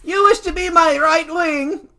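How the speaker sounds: high, loud, slow put-on voice; haughty council boy. Questioning his would-be vice president, haughty. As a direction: ask it grandly, high and drawn out. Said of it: "I'm sticking with this accent".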